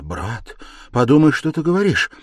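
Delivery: indignant rebuke, swelling in volume; hot-tempered. A narrator's reading. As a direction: begin hotly, rising high in protest. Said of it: "Вспыльчиво начала была".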